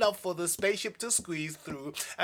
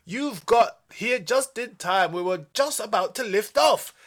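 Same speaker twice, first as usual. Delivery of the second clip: calling out; 5 semitones higher, 6 dB louder than usual. Acted. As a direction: shout to friends from inside the ship. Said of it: "Bo called out".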